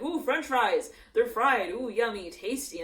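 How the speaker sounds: loud excited gushing about food. Retold or imitated. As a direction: gush with greedy excitement. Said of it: "They're getting really excited".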